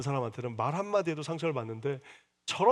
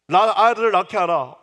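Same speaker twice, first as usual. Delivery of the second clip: loud pleading cry leaning on 아들을; anguished demand; 4 semitones higher, 9 dB louder than usual. Acted. Rachel crying to Jacob for a son, loud and desperate. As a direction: hit 아들을 hard, desperate. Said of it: "상처받고 있는 라헬이 하는 말인데".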